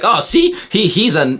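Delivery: high, sneering imitation; high mock voice; mocking critic. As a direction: parody the offended guy.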